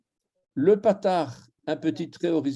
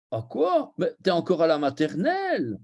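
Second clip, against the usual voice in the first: surprise moqueuse; 3 semitones higher than usual. Retold or imitated. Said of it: "Elle a vu les voyelles".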